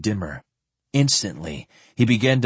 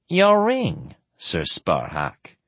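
whining voice; slower than usual. Acted. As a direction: whine it like a spoiled prince. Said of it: "in his whining voice".

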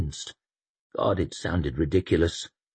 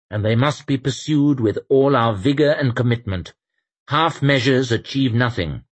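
raised, firm voice of a stern Inquisitor; 6 semitones higher, 5 dB louder than usual. Acted. Inquisitor lecturing the company on resolve, stern and raised. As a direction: lecture them on hard choices, higher than the narration.

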